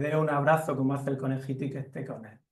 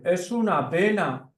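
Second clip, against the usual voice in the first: higher, slow, caring bear voice; mother bear; 5 semitones higher, 3 dB louder than usual. Acted. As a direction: explain gently to the mouse, drawn out. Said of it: "Y la osa dice".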